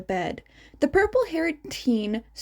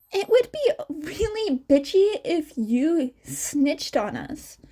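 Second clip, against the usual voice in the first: put-on higher, nervous caught-out girl with a laugh; sheepish girl; 5 semitones higher than usual. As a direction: own up with an awkward laugh. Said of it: "Ochako sheepishly exited the closet".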